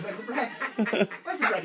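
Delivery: playfully asking for bread as the duck; voicing the duck. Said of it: "He says".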